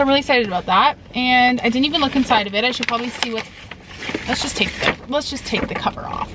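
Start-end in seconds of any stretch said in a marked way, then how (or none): 2.7-6.3 softly whispered aside. Real, not acted. To viewers while unwrapping the book, a soft whisper. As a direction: whisper it as you peel the cover.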